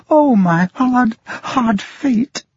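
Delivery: high, slow wail of grief; tearful lament. A narrator's reading. Blind girl lamenting to her father, tearful. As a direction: mourn your hard fate through tears. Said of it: "bursting into tears".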